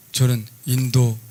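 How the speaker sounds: normal talking voice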